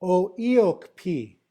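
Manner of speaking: "O Iokpi" said slowly, as oh ee-OHK-pee; slow "O Iokpi" with a puff of air on the P; pronunciation demo. Shown as a demonstration. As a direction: model "O Iokpi" for learners, drawing it out. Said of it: "try and say that".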